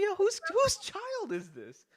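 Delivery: high, slow whiny tantrum voice; hammed-up bratty outrage; mock outraged kid. Retelling the seat fight to his co-host, a high whiny tantrum.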